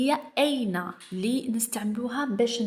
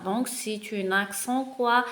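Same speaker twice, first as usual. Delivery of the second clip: slow reading aloud; 4 dB quieter, much slower than usual. Shown as a demonstration. Teacher reading the text aloud to pupils, very slow. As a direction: read each word very slowly. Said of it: "On va commencer".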